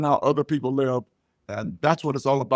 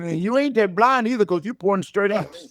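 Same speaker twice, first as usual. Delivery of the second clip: mock gotcha; 5 semitones higher than usual. Teasing the blind lady who points.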